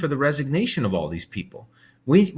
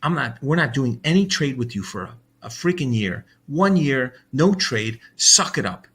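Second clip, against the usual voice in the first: angry ultimatum; 4 semitones higher, 3 dB louder than usual. Retold or imitated. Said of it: "And I'd say".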